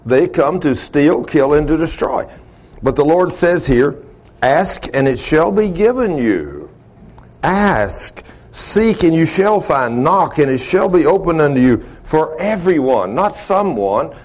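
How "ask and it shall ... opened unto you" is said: measured Bible reading with each command set apart; scripture reading. Real, not acted. Preacher quoting the Lord to congregation, measured scripture reading. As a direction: read the verse aloud, pausing on key verbs.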